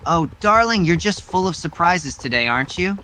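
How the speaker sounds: a hint of smug flirtation; teasing suitor. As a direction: tease her like a smug courtier. Same teasing hero voice.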